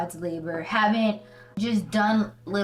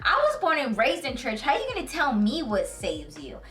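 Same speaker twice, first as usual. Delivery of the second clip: triggered; 5 semitones higher than usual. Retold or imitated. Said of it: "so triggered".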